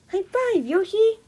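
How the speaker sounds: high, loud celebratory call; excited cheer. Pretend. Toy invites Yoshi to high five, excited loud cheer. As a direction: cheer it out to your buddy.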